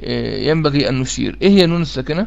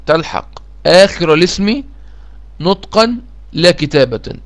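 slow dictation; 2 semitones higher, slower than usual. Shown as a demonstration. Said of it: "تاني".

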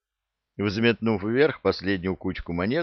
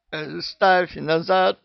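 much higher, slow, worked-up bark; barked order; 10 semitones higher, 3 dB louder, slower than usual. A narrator's reading. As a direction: bellow it like a man in a frenzy. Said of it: "гаркнул вошедший в раж Шахрияр".

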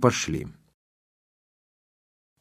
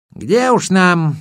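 wry; 8 semitones higher, much slower than usual. Acted. Water spirit's wry reply.

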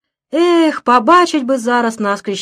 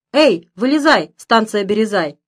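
cheerful shout; 3 dB louder than usual. Acted. Driver cheerfully calls to the woman in his truck, mild cheerful shout. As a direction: call out gaily to the passenger in the truck. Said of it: "весело кричит он".

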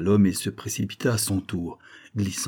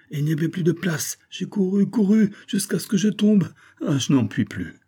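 put-on high, breathless girl's voice, climbing higher; exhausted girl; 6 semitones higher, 3 dB louder than usual. A narrator's reading. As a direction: gasp out the story after running. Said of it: "La pauvre fille était épuisée". (Susan épuisée raconte sa course)

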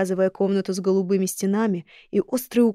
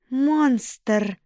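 put-on sharp girlish cry; 4 semitones higher than usual. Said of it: "голос по-прежнему был высоким, девичьим, но теперь в нём появилась резкость".

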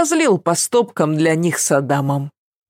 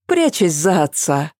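usual speaking voice

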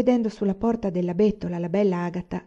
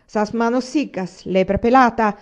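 louder, scolding cry; shouted insult; 4 semitones higher, 5 dB louder, slower than usual. Acted. Agata yelling at a shepherd who pinched her, shouted insult. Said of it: "gridò Agata".

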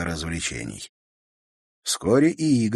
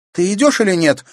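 higher, louder snapping demand; angry demand; 12 semitones higher, 8 dB louder than usual. A narrator's reading. Natasha angrily demanding her brother come along. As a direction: lose patience with him. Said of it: "рассердилась Наташа".

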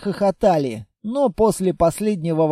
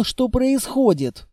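plain reading voice

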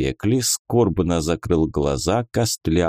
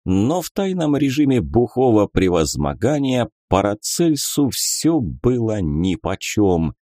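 plain reading voice

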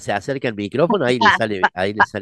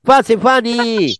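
high sing-song welcome; 10 semitones higher, slower than usual. Acted.

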